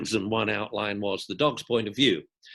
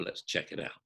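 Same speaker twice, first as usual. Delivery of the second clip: whispered; 10 dB quieter than usual. Retold or imitated. Speaking to the owner.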